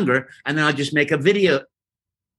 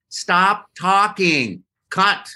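retold director's order; 7 semitones higher, much slower than usual. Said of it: "I went until I heard".

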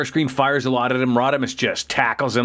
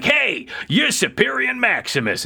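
high mock greeting; 9 semitones higher than usual. Downshift greeting Superion.

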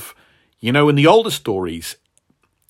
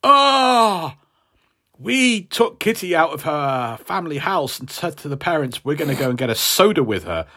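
mock innocent villain voice; 3 semitones higher than usual. Mocking villains' excuse.

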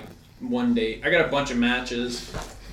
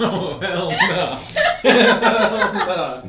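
slow, laughing hell no; laughing refusal; much slower than usual. Real, not acted. Reacting to heart-shaped picture.

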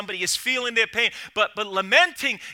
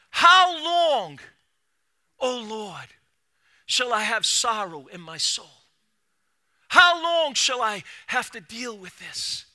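crying out; slower than usual. Acted. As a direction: cry "How long, O Lord" then sink. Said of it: "David is crying out".

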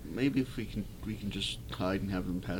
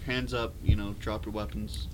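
commanding military voice; 4 dB louder than usual. Acted. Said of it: "commanding military voice".

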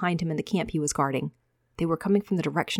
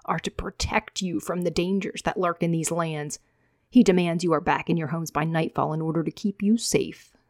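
arrogant, judgmental. Acted. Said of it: "in his arrogant, judgmental tone".

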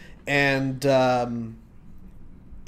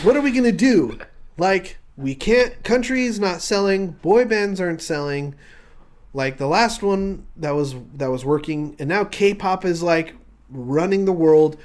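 panicked executive; 3 semitones higher than usual. Acted. Executive panicking over falling sales.

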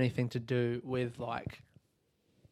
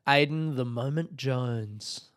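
mock announcer; slower than usual. Announcing a wrestler-style name.

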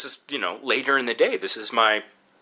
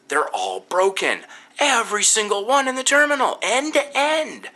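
exasperated emphasis; 10 semitones higher than usual. Real, not acted. Exasperated about broken monitors.

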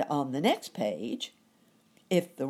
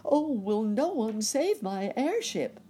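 high, loud plea for rescue; pleading shout; 8 semitones higher, 5 dB louder than usual. A narrator's reading. Rabbit begging someone to save his burning airship, high pleading shout. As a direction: cry out high and loud for help. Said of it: "shouted Uncle Wiggily".

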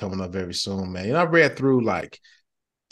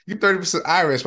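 sister's blunt reveal, pitched up; blunt announcement; 8 semitones higher, 5 dB louder than usual. Retold or imitated. Sister springing the DNA result on mom, blunt and high. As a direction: blurt it out high and flat. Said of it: "hit mama with the".

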